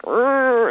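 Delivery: drawn-out groaning "urgh" of a ship turning; imitated ship-turning noise. Describing a cruise ship turning mid-ocean, imitated groan. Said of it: "it's just like".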